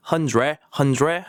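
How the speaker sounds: "hundred" as a drawn "hun-dre", no final D; practice R. Shown as a demonstration. Teacher drilling before real speech, practice R. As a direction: stretch out the "re" in "hundred". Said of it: "연습은 그렇게 하되".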